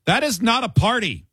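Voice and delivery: upbeat radio promo read; radio show tease. Acted. Host teasing the next segment, upbeat promo read.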